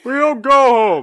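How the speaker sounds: loud, defiant refusal; stubborn shout. Acted. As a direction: shout it down, no arguing. Head voicing stubborn refusal.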